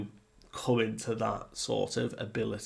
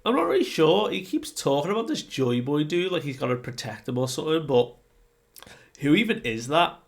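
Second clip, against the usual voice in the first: much higher, louder, puzzled cartoon Luffy voice; confused Luffy; 4 semitones higher, 4 dB louder, faster than usual. Luffy tells the giants he has no idea who Joy Boy is, high and puzzled. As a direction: squeak it out, baffled and clueless. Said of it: "Luffy says".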